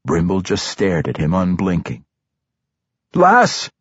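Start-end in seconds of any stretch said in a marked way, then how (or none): 3.2-3.7 high, worried dwarf query; questioning dwarf. Acted. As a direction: ask it gently, raised. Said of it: "he asked".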